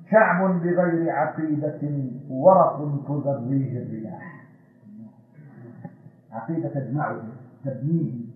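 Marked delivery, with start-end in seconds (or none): 0.1-4.3 softer, slow first reading of the line; quiet verse. Shown as a demonstration. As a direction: say it low and slow before building. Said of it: "verse recited once, then repeated".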